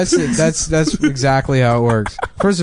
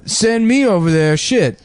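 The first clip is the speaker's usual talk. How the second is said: higher, brash comic voice; Steve Harvey impression; 8 semitones higher, slower than usual. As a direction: boast like a cocky comic. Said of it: "And he's like".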